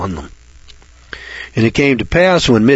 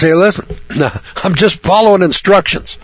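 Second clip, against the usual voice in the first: casual, offhand Elijah; nonchalant; 4 semitones higher than usual. Retold or imitated. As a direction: shrug it off lightly. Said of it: "pretty nonchalant about it".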